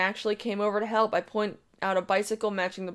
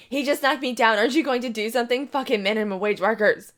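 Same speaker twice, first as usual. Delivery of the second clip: whiny accusation; 3 semitones higher, 4 dB louder than usual. Retold or imitated.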